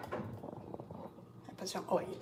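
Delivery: slow unvoiced whisper to herself; hushed slow murmur to herself; whispered aside. Real, not acted. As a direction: breathe the words out slowly under her breath. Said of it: "So I put some oil inside the pot".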